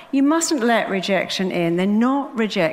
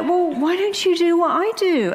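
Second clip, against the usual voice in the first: excited retort; 10 semitones higher than usual. Retold or imitated. Retort to psychiatrist.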